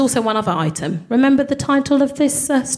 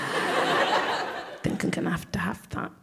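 soft, slow, breathy whisper; hushed, slow longing; whispered desire; 4 semitones lower, 10 dB quieter, slower than usual. Retold or imitated. Lusting after his abs.

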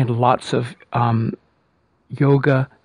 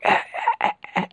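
mock gasping; 5 dB quieter, much faster than usual. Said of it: "some people are going".

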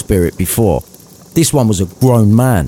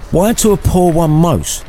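Scrooge asking; 8 semitones higher than usual. Acted. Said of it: "asked Scrooge".

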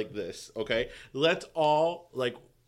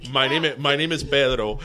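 loud Miami guy caller; caller character; 5 dB louder than usual. Pretend. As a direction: shout out like a hyped radio caller. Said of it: "in character".

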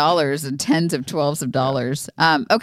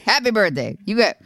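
dad impression; 6 semitones higher than usual. Imitating dad singing birthday.

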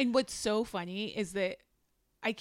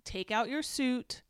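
very calm. Retold or imitated. Retelling Jasmine instructing her husband, very calmly. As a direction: spell it out calmly, with pauses between steps. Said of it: "Jasmine very calmly says".

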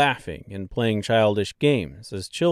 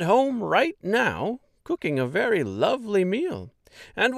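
chatty Munchkin mayor. Acted. Mayor invites travelers to dinner, eager chatter. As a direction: gush over everything lovely.

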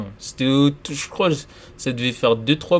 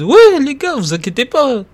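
calm, reassuring, pitched up high; super calm; 4 semitones higher, 4 dB louder than usual. Retold or imitated. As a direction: soothe the worried guys. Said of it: "super calme, en mode".

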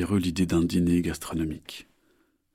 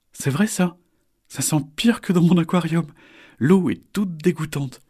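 put-on high, bright young turtle; a small turtle, disgusted; little turtle voice; 10 semitones higher, 5 dB louder than usual. Little turtle Isor speaks.

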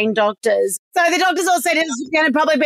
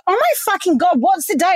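sudden high gasp of disbelief; startled and raised; shocked realisation; 8 semitones higher than usual. Real, not acted. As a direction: blurt it out, stunned.

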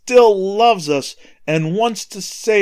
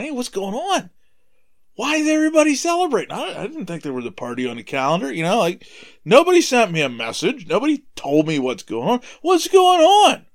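put-on puzzled older son; 6 semitones higher than usual. Older son questions the servant.

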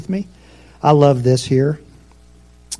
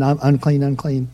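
leper crying out; 6 dB quieter than usual. Retold or imitated. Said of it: "out of the camp crying".

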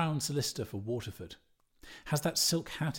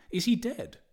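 much higher, alarmed cry; frightened exclamation; 10 semitones higher, 5 dB louder than usual. Acted. Daedalus fears the boy drowned, high frightened cry. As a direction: gasp it out in sudden fright. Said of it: "exclaimed in fright".

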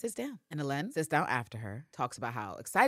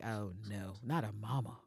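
dismayed; 6 semitones lower, 8 dB quieter than usual. Retold or imitated. Pam dreads the loving mom.

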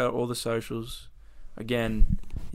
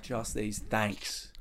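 bored mechanical politeness; 4 semitones lower, 9 dB quieter, much slower than usual. Pretend. Acted shy checkout line.

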